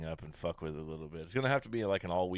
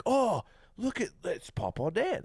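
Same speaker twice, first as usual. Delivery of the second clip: put-on much higher and louder, delighted little kid voice; imitating a toddler; 13 semitones higher, 5 dB louder than usual. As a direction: squeal it like a toddler spotting grandpa. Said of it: "straight up gets all excited and is like".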